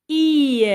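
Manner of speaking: "I" pronounced loudly as the yod sound; emphasized sound. Shown as a demonstration. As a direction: punch the "I" sound out loud. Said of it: "c'est le son". ("I" prononcé fort, bien appuyé)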